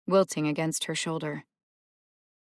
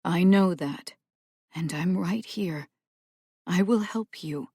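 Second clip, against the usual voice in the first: gentle. Acted. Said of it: "Celia said gently".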